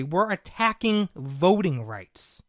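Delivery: slow, mocking repeat of attacking voting rights; sarcastic echo. Host scoffing at the accusation against conservatives, slow sarcasm. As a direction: spell it out with disbelief.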